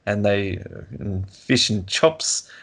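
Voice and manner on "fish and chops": imitated New Zealand "fish and chops"; New Zealand vowels. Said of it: "with New Zealanders is they".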